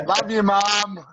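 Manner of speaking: high, long-drawn-out shout-out; drawn-out, high-pitched affection; playful call to mom. Pretend. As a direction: sing out a playful greeting, stretching it. Calling out to mom after laughing.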